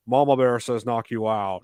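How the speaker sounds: slow, deliberate movie-star impression; Nicolas Cage. Podcast host doing his funny impression of a bear-suit scene, slow mock actor voice. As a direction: lightly imitate an actor's slow delivery. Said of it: "my Nicolas Cage impression".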